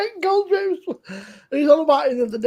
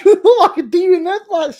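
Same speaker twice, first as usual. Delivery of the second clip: louder, laughing through the jibe; 7 semitones higher, 8 dB louder than usual. Retold or imitated. Scene: teasing Goldrake about the reviewer, laughing. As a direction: crack up while teasing him. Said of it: "and I said".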